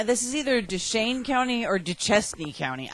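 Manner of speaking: "Duchesne" said first as "doo-SHANE" then as "doo-CHESS-nee"; both ways, "Duchesne County" and "Duchesne County"; two pronunciations. Shown as a demonstration. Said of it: "I don't know which".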